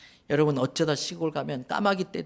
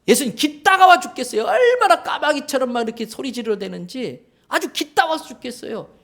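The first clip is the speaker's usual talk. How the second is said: 1 whining disciple; 5 semitones higher, 5 dB louder than usual. Retold or imitated. Disciples whine to Jesus.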